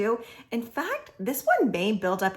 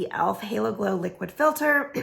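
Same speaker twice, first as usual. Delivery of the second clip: hoarse voice. Real, not acted. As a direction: voice going hoarse, slightly rough. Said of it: "losing my voice".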